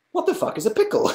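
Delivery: high mock bafflement cracking into laughter; laughing self-mockery. Mocking his own pickle confusion to chat, high and laughing. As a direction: squeak the question, then crack up. Mocks himself, breaking into laughter.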